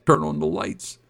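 yell. Retold or imitated. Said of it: "and I yelled".

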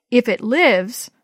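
skeptically. Acted. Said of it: "Jonathan said skeptically".

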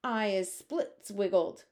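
slow, drawn-out giant yell; hammed-up giant yelling slowly; slow mock yell. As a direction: yell it like a trussed brute. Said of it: "yelled the child chewer".

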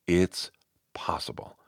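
hushed whisper of encouragement. Real, not acted. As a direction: whisper it like a secret promise. An encouraging closing point.

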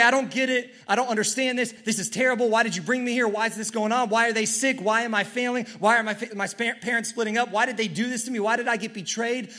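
anguished complaint. Acted. Believer crying out to God in anguished frustration. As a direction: cry out why in frustration. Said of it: "If we say".

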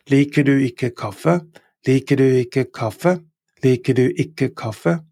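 "Liker du ikke kaffe" with a rising end; Norwegian question. Shown as a demonstration. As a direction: model question. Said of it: "Don't you like coffee?".

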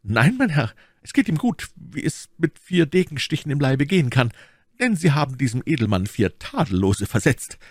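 high, lively servant's voice; reporting servant. Acted. Servant reporting to his master on a duel's outcome, lively.

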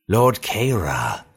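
slow, thin stranger's voice; thin reedy voice. A narrator's reading. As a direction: draw it out like a frail old stranger. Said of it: "a thin voice called out".

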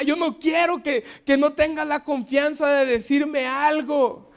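hurt wife scolding lovingly; wife's reproach. Retold or imitated. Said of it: "Y me".

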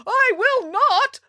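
high, drawn-out defiant call; calling back. A narrator's reading. Bramwell fleeing the giant, high defiant call. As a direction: call it back over your shoulder. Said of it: "Bramwell called back".

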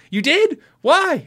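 high, loud mock disbelief; imitating his own shocked reaction to the retailer; surprised. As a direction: squeak it out in retold astonishment. Retold shock at retailer's deal.

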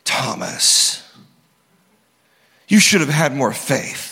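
a hint of a disappointed, scolding Jesus; stern scolding Jesus. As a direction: lecture him like a let-down teacher. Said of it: "this would be a good opportunity for Jesus to say".

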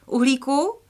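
put-on a girl calling for her cat. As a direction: call out for the lost cat. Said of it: "volala Jiřka".

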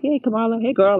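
casual sister-to-sister greeting, lightly voiced; a hint of calling out to a girlfriend; blacking up the name. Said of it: "like, blacking up the name".

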